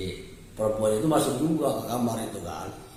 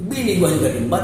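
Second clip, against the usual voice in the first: put-on Betawi accent; 3 semitones higher, 5 dB louder than usual. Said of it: "kalau bahasa Betawi kan kayak gitu".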